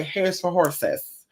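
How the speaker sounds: a hint of a stern grandma correcting; slow, soft mock grandma rebuke; grandma's retort. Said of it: "and she would say".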